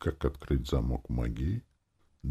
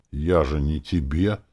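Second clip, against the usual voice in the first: louder, protesting retort; indignant; 3 semitones higher, 7 dB louder than usual. A narrator's reading. Hero objects to demon policing his words, indignant. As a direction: push back with rising indignation. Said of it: "возмутился я".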